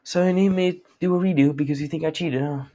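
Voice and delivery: acted self-assured comeback; confident. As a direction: throw the question out with mock swagger. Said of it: "all confident".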